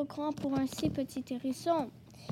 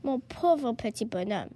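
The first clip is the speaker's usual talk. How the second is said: lower-pitched, gentle sympathy; pitying tenderness; 4 semitones lower than usual. Acted. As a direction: say it kindly to a freezing little creature. Fox pities the freezing hedgehog.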